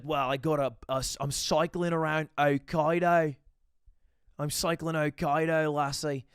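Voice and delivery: put-on Welsh accent, unhurried. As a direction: imitate a friend's Welsh accent, drawing out the words. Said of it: "Weird accent today, w-".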